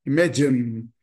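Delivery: IMAGINE as i-MA-jin, final E silent; two syllables. Shown as a demonstration. Teacher echoes the dictionary, IMAGINE without final vowel. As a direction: end IMAGINE on the n. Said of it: "Duas sílabas também".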